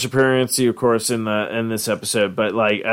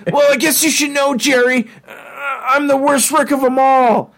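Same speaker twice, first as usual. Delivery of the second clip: sad Doofus Rick; 12 semitones higher than usual. Retold or imitated. Doofus Rick confessing to Jerry, high and tearful. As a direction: admit it sorrowfully. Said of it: "he's all like".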